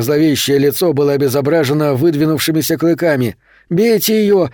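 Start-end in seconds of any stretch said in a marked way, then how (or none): 3.7-4.5 high, urgent cry; narrated yell. A narrator's reading. Tommy urges attack on the vampire, high yell. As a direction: yell it high without full volume. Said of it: "завопил Томми".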